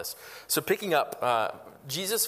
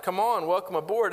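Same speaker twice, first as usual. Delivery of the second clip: higher, louder cheery welcome; mock welcome; 5 semitones higher, 5 dB louder than usual. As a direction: greet him like a glad recruiter. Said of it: "you'd expect".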